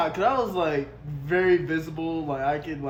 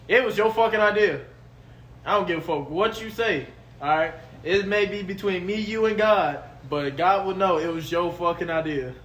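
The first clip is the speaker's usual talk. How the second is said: louder insisting it was your idea; heated accusation; 4 semitones higher, 5 dB louder than usual. Real, not acted. Friend blaming his buddy for getting them kicked out, heated. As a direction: swear to it, pointing the blame.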